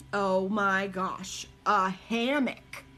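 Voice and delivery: slow, drawn-out amazement; amazed. Real, not acted. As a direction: savor the idea in disbelief. Excited reaction to a chat idea.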